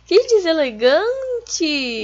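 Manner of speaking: slow, loud mock indignation; drawn-out fake offense; mock offended.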